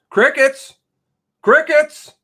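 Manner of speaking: loud high taunting call; jeering cry of crickets; taunting shout. Real, not acted. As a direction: call out the silence mockingly.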